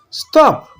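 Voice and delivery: high panicked shout of stop; panicked shouts at the woman; scream. A narrator's reading. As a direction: cry out in alarm to halt her. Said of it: "Ngozi screamed".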